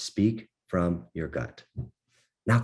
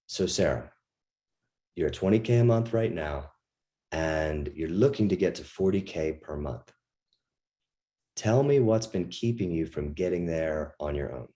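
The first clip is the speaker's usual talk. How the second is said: kinesthetic tonality. Shown as a demonstration. Coach demos the calm kinesthetic style after a breath. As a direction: take a breath and speak from the gut. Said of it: "you'll hear the difference in tonality".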